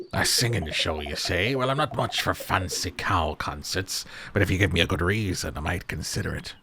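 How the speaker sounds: lightly voiced doubtful sailor; sceptical sea-dog character. Sailor doubts the cow concert, lightly sceptical sea dog. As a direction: play a seafarer who needs convincing.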